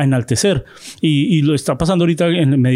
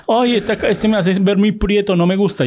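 higher, whiny complaint; imitating a TikToker; 5 semitones higher than usual. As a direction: fuss over an unflattering photo. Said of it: "en muchos TikToks". (imitando a una tiktoker que se queja de su foto)

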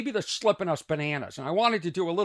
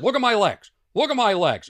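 louder and higher, showing off; loud playful bragging; loud mock boast; 5 semitones higher, 9 dB louder than usual. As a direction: show off with a big voice. Retold boast to gym kids.

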